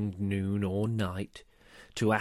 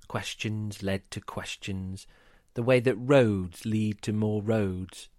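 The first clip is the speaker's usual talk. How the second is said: rhyming story narration. A narrator's reading. Storyteller reading a rhyming tale to listeners.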